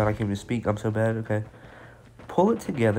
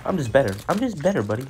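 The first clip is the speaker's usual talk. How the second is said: gloating; 3 semitones higher, 4 dB louder, faster than usual. Real, not acted. Gloating after a kill.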